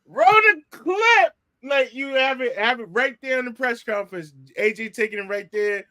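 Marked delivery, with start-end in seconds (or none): 0.1-1.3 high, loud, slowly stretched command; hammed-up slow announcement to the crew; drawn-out call. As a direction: holler it out, dragging the words. Repeats the acted call, drawn out.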